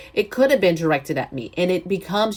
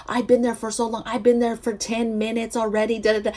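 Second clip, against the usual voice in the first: imitated complaint, pitched up; mock-upset protest in a higher voice; upset customer; 5 semitones higher than usual. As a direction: mimic a customer insisting she has waited. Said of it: "This lady's so upset, talking about".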